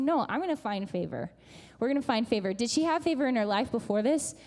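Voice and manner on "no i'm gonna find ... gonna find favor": firm, matter-of-fact resolve; sure declaration. Retold or imitated. Ruth declaring she will find favor, sure. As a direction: state it as settled, no maybes. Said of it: "She's saying".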